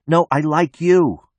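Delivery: high, slow, insistent shout. A narrator's reading. Marla corrects him from across the roof, slow high shout. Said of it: "Marla shouts".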